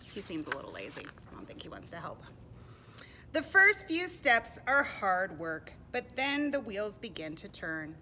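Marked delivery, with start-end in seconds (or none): 3.3-8.0 put-on loud, slow read-aloud for children; deliberate, projected picture-book reading; storybook narration. A narrator's reading. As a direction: count out each item slowly for little listeners.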